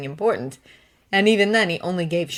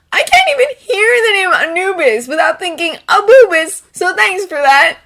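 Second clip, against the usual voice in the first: dry; 13 semitones higher, 10 dB louder than usual. Acted. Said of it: "Lance says dryly".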